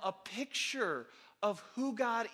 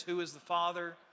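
calling to the balcony; 3 semitones lower than usual. Shown as a demonstration. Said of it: "Let me hear it from upstairs".

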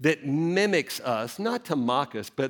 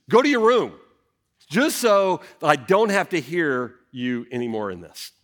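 loud order; 3 dB louder than usual. Retold or imitated. Father at his limit sending his daughter to her room, loud. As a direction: bark the order then settle.

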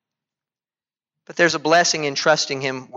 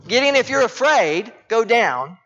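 God's voice to Gideon; 7 semitones higher than usual. Acted. Preacher voicing God's words to Gideon.

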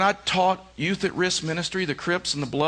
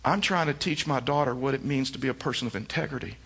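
much softer and lower, steady and earnest; quietly firm; 4 semitones lower, 6 dB quieter than usual. Retold or imitated. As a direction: calmly correct the manager without raising your voice. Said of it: "I just told him kinda quietly".

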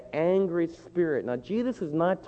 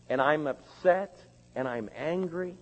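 ordinary delivery

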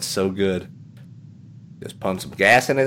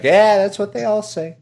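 knowing salesman, pitched up; Tom Nook; 9 semitones higher, 4 dB louder than usual. Acted. Salesman doubting the homeowner, high knowing scoff. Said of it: "He's like".

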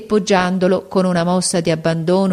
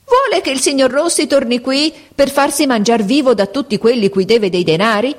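ironic; 8 semitones higher than usual. A narrator's reading. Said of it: "replicò con ironia la portinaia".

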